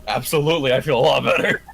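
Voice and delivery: loud, enthusiastic confirmation ending in laughter; emphatic. Acted. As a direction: belt it out with conviction. Emphatic reaction after hearing seventeen points.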